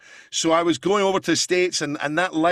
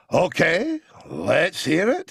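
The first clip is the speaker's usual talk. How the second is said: Andrew Neil impression; much slower than usual. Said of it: "and went".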